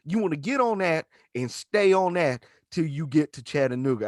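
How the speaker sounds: slow, easy drawn-out directions; laid-back directions. Retold or imitated. Stranger with a forty giving directions, slow and easy. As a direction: talk him through it calmly.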